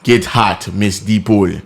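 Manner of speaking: "Deeple" said DEE-pull, swallowed ending; movie butler's pronunciation. Retold or imitated. Butler to a little girl, "Deeple" as DEE-pull. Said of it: "One more time?".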